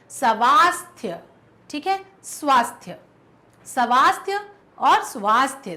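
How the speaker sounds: each स्वास्थ्य sounded out distinctly; reading options carefully. Shown as a demonstration. Teacher reading out spelling choices. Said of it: "कौन सा सही होना चाहिए".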